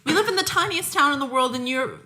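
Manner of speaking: high, laughing mock outrage; mock indignant local. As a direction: play it up as the offended townie, laughing. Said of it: "I was like".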